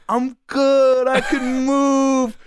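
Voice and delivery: loud, high, drawn-out holler; exaggerated slow yell of a man just revived; dazed injured friend. Fallen friend answering about his limbs, dazed yelling.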